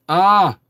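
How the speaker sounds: loud, high swooning "ah"; swooning gasp. Retold or imitated. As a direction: cry out as if swooning over an accent. Acted reaction to sexy French accent.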